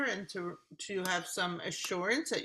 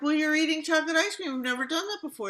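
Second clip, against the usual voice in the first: mock upset complaint; 7 semitones higher, 5 dB louder, faster than usual. Voicing upset partner complaint.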